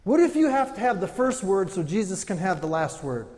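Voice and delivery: loud, high preaching; impassioned sermon delivery; full-force preaching. Real, not acted. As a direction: preach it hard to the room.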